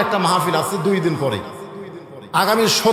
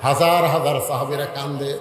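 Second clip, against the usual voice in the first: melodic preaching; 2 semitones lower than usual. Acted. Preacher tells of the shepherd seeking Omar, melodic preaching. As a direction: draw out line endings in a chant.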